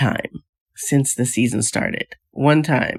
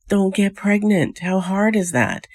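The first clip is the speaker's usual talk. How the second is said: higher, slow, incredulous; as if it's the simplest rule ever; exasperated; 6 semitones higher, slower than usual. Acted. Vlogger lectures the couple, slow and incredulous.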